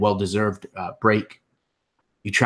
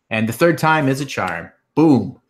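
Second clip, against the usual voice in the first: triumphant boom; 4 semitones higher, 4 dB louder than usual. Real, not acted. GM pleased with own retelling.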